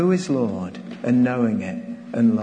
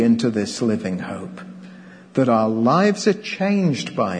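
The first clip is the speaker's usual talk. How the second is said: public prayer. Real, not acted. Leads the closing prayer.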